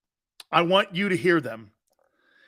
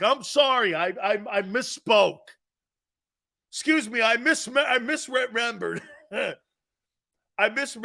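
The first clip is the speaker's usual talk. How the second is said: mock apology. Keeps mock-apologizing with laughs.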